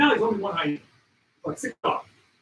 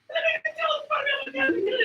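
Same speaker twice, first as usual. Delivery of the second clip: excited shout; 14 semitones higher, faster than usual. Real, not acted. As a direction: shout it out as the kill happens. Climax of the wild dog hunt.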